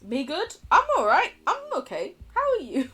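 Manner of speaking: high-pitched, flustered babble. Pretend. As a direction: get all flustered on seeing your crush. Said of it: "me seeing Matt and just getting flustered".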